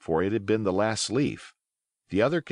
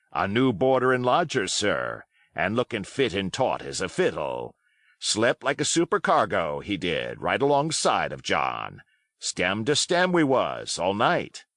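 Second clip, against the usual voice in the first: put-on hearty old pirate. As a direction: chatter on cheerfully, playing the host. Silver's voice held.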